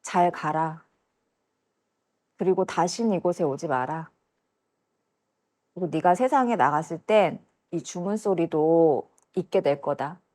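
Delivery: quiet, measured voicing of the man; retold farewell, low and soft at the end; departing man. Man sending her back to the world, subdued farewell. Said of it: "그 남자가 저한테 그러는 거예요".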